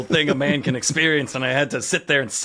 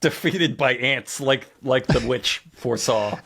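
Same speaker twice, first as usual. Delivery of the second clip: put-on old-timey news voice; slower than usual. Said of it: "old-timey news voice".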